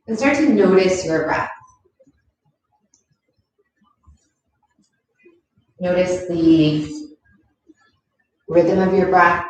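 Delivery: calm, unhurried yoga teacher voice; guided yoga instruction. Acted. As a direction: guide gently through each movement, leaving long pauses. Leads a yoga practice.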